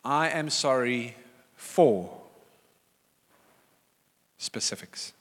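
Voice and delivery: slow, measured model apology; deliberate, sincere demonstration; proper apology. Shown as a demonstration. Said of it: "An apology is".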